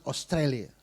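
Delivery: Australia said the English way, "ostrelia"; Australia spoken as in English, not Indonesian; English pronunciation. Shown as a demonstration. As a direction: give Australia an English "os-TRAY-lia". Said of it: "Harus ngomong".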